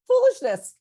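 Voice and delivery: high, loud laugh through the word. Real, not acted. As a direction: laugh it out at yourself. Laughing at her own foolishness.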